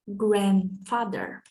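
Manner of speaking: Grandfather said slowly with the D left out, gran-father; dropped D. Shown as a demonstration. Teacher to students, modelling the word: Grandfather without the D. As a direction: drop the D in Grandfather, closing the N. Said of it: "we usually don't pronounce the D".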